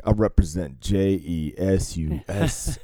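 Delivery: lightly voiced Christian DJ, slow, spelling it out with a laugh; a hint of a preachy radio host. Driver quoting the Christian hip hop DJ, mock announcer. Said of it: "he's like".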